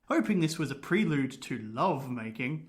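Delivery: measured, lilting storytelling read; story narration. A narrator's reading. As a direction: tell a spooky tale with relish. Reads the ghost story.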